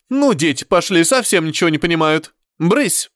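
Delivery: curt, dismissive scolding; rude scolding. Acted. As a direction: shoo the child away rudely. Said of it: "тётя говорит грубо".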